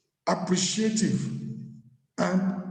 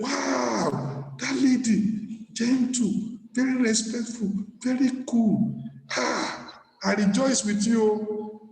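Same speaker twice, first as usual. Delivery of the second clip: admiring praise; 4 semitones higher, slower than usual. Retold or imitated. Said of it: "Then you mention it".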